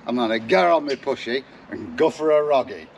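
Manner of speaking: broad Derbyshire dialect, lightly; casual Derbyshire accent chat. Real, not acted. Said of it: "my broad Derbyshire accent".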